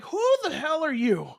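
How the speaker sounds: high-pitched, incredulous demand; retold indignant challenge. Unscared kid challenging the yeller, retold indignation.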